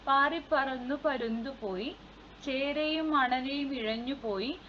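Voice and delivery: measured, rhythmic verse reading; children's poem recital. Acted. Teacher reciting a forest festival poem to pupils, rhythmic recital. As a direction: recite a lilting children's rhyme line by line.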